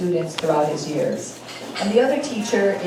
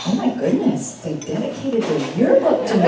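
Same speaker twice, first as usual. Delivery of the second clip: surprised exclamation; 3 semitones higher, 4 dB louder than usual. Retold or imitated. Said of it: "opened it and said".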